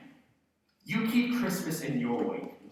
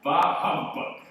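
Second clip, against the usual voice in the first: louder, slow rasped-out humbug; harsh scoff; 4 semitones higher, 9 dB louder, slower than usual. Acted. Scrooge snapping back at his nephew. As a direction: spit the words out in contempt.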